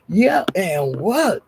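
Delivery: drawn-out imitated challenge; mock so-what defiance, slowly; defiant comeback. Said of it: "he was talking like that".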